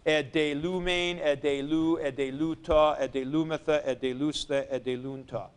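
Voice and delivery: reciting e de lumen through e de lunta, each ending spelled out clearly; paradigm recited. Shown as a demonstration. Teacher reciting middle passive forms to students, measured and clear. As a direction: drill the imperfect endings one by one. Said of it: "And in the imperfect".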